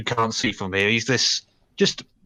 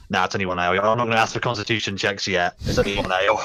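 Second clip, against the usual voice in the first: put-on Scottish accent; 3 semitones lower, faster than usual. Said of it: "my terrible Scottish accent".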